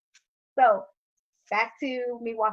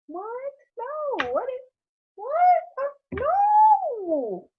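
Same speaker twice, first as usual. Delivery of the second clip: flustered denial; 12 semitones higher, 3 dB louder, slower than usual. Retold or imitated. Caught teen stammering denial.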